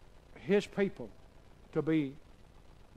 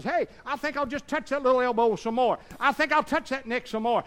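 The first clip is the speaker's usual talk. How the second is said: devil voice; 7 semitones higher, 4 dB louder than usual. Retold or imitated. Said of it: "the devil says".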